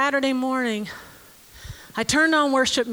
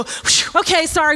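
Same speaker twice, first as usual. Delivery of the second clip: mock relief; 4 semitones higher, 4 dB louder than usual. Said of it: "I go".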